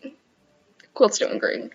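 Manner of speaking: slow whispered repeat of The quilt's doing great; whispered aside. Shown as a demonstration. Second-guessing her quilt claim, slow whispered. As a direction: breathe it out doubtfully, slow. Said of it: "No, it's not".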